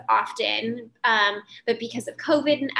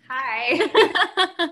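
put-on high, louder little-boy hi; child's hi; 5 semitones higher, 6 dB louder than usual. Son greets the host, a high loud kid hello. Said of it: "He's like".

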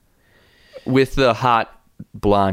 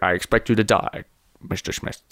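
Sean Connery; 2 semitones lower, 5 dB quieter than usual. Pretend. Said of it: "I was doing Sean Connery".

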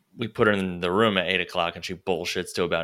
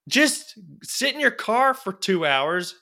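mock advice; 11 semitones higher, slower than usual. Mocking advice to salesman.

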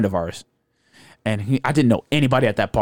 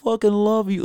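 high, loud, gushing "I love you"; drunk gushing; 11 semitones higher, 5 dB louder than usual. Retold or imitated. Drunk friend gushing love to Eric, high and loud.

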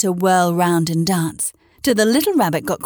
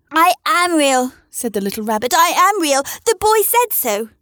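little rabbit near tears; 8 semitones higher than usual. A narrator's reading. Toy rabbit pleads he is real, high and near tears. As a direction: insist through rising tears. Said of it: "nearly began to cry".

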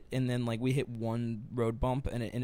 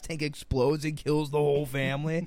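much higher, louder hammed-up host; game show host; 5 semitones higher, 5 dB louder than usual. Pretending to be the host offering grim options, loud and high. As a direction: pitch it like an over-the-top TV host. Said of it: "I think it'd be like".

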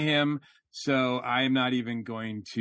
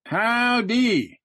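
high, loud Southern howdy; playful mock Southern drawl; Southern accent; 8 semitones higher, 4 dB louder than usual. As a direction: put on a big drawn-out Southern greeting. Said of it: "deep Southern accent".

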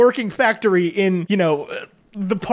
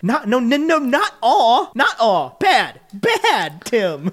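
drawn-out, emphatic disapproval; firm, playful telling-off; mock scolding; slower than usual. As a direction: tell him off like a naughty pet. Mock-scolding the film character.

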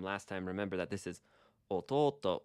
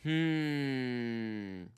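thoughtful hum; 4 semitones higher than usual. Shown as a demonstration. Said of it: "that's kinda like saying".

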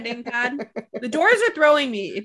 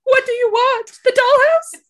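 loud questioning; 13 semitones higher, 8 dB louder than usual. Pretend. Asking ghost child.

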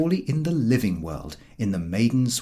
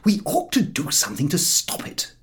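Harris; 5 semitones higher than usual. A narrator's reading. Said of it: "said Harris".

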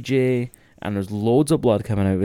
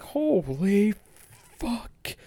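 much higher, drawn-out stunned exclamation; popped reaction; 12 semitones higher, much slower than usual. Retold or imitated. Telling the hosts how he popped, high stunned exclamation. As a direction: let the amazement squeak out.

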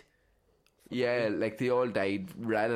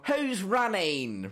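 panicked shout; 9 semitones higher, 4 dB louder, much slower than usual. Retold or imitated. Crowd panicking in dark.

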